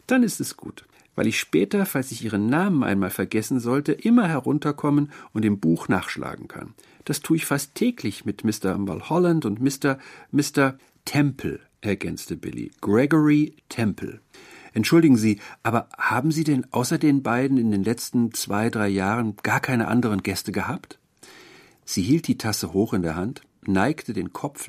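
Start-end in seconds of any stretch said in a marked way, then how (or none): 0.1-11.6 put-on lightly raised, sweetly chatty old landlady; a hint of a fussy, friendly old landlady, higher. Wirtin spricht mit Billy. 12.8-21.0 a hint of an eager, polite young man; young man Billy. Billy fragt die Wirtin.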